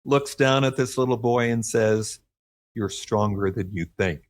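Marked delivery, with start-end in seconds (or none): 2.8-4.2 softer, lower, moved while quoting; choked up. Retold or imitated. Writer quoting Superman to a little boy, a little choked up. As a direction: quote it tenderly, a little choked up. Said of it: "starting to get a little choked up".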